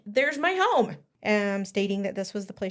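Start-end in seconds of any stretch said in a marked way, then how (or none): 0.1-1.0 put-on higher, louder child's cry of recognition; excited exclaim. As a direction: exclaim it like a girl spotting her home. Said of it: "and she exclaimed".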